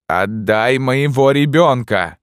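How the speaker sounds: high, loud, slow insistent cry; mother screaming for her child back; shouted demand. A narrator's reading. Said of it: "отвечала узница".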